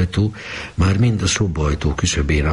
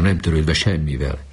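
usual speaking voice

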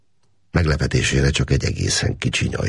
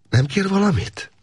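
lightly raised caring woman; woman's voice. A narrator's reading. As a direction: ask kindly, as a gentle woman. Woman's voice in story. (gondoskodó női hang)

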